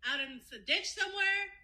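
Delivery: angry outburst. Acted. Friend giving her imagined reaction to a missing partner, angry outburst. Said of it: "my reaction would have been".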